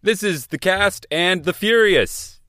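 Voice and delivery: high, drawn-out show intro yell; excited yelling. Real, not acted. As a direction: yell the show's name with excitement, slowly. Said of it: "Why are you yelling".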